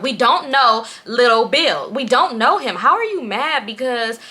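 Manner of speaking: exasperated, emphatic scolding; retold irritated telling-off; annoyed. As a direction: spell it out to a friend, fed up. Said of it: "I'm annoyed".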